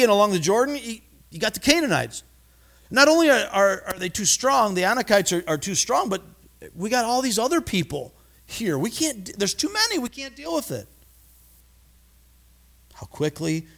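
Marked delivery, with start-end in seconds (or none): 2.9-10.9 mock-fearful spies piling up excuses; a hammed-up scared complainer, much higher; panicky spies. Spies listing enemies in panic.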